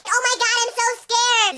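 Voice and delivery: high mock-frightened squeal; hammed-up fright; mock scared. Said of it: "And they were like".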